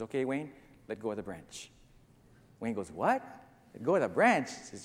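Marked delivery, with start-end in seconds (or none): 0.0-1.7 low, soft, unruffled voice of God; gentle low command; calm instruction. Acted. God calmly instructs hanging man. 2.9-4.5 incredulous question. Acted. Man disbelieves God's instruction.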